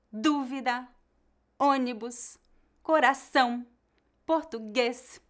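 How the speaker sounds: "dúvida, ônibus, coração, português" in careful citation style, leaning on each written accent; stress on accented syllable. Shown as a demonstration. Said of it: "aquela sílaba será a mais forte".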